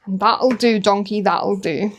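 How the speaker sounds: put-on lightly accented Shrek quote. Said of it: "you have to do it in the accent".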